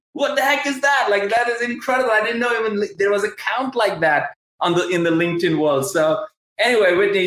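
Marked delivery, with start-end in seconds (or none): 0.1-2.9 higher, disbelieving what the heck; genuinely floored by the number; amazed. Real, not acted. Host reacting to guest's follower count, amazed.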